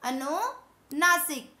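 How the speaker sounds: अनुनासिक said slowly, syllable by syllable; slow emphatic term. Shown as a demonstration. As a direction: draw out अनुनासिक for the students. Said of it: "एक होता है हमारा". (अनुनासिक धीरे और साफ़)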